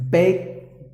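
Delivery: BAKE with a long ay vowel; careful model pronunciation. Shown as a demonstration. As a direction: say BAKE clearly, as a teacher modelling it. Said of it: "how you have to pronounce".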